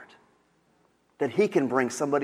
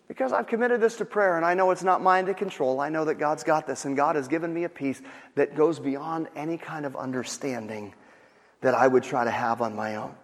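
unruffled, easing down in pitch; calm. Acted. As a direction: answer the panic with steady assurance. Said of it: "How could you be so calm".

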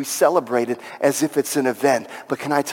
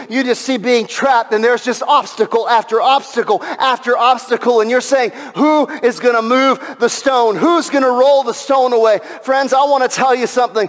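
raised-pitch, insistent sermon delivery; fervent preaching; 7 semitones higher than usual. Real, not acted. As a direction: press the congregation with urgent conviction.

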